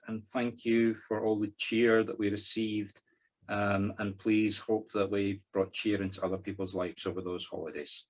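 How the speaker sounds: measured, even prayer delivery; sincere spoken prayer; opening prayer. Real, not acted. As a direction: pray aloud for the group, phrase by phrase.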